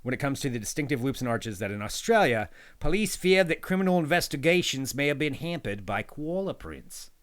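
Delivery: put-on a light Australian accent reading the fact. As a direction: read it out with a hint of an Aussie accent. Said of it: "Is that your Australian accent?".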